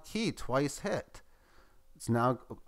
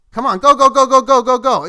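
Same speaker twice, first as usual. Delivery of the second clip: loud, high, rapid-fire cheering; real shouted chant, pitched way up; excited urging; 10 semitones higher, 15 dB louder than usual. Real, not acted. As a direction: yell it on like a horse near the finish. Urging the price to climb.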